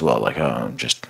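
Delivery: mock dumb excuse. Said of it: "their argument is".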